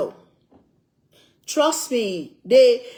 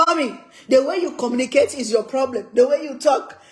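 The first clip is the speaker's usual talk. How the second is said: retold daughter's complaint; 3 semitones higher, 5 dB louder, faster than usual. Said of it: "Rashida have to scream".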